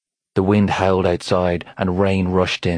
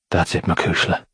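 encouraging. A narrator's reading. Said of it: "he said encouragingly".

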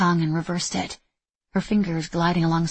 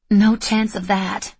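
frustrated; 3 semitones higher, 6 dB louder, slower than usual. Acted. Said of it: "Frustration edged into the words".

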